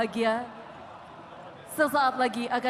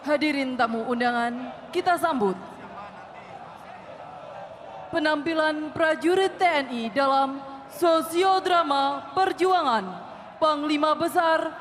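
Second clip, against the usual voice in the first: emcee announcement; 4 semitones higher than usual. Acted. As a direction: announce the act with fanfare. MC announcing the drama.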